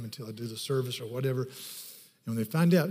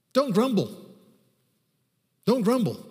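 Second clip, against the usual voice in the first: emphatic exhortation; 8 semitones higher, 5 dB louder than usual. Real, not acted. Preacher exhorting congregation.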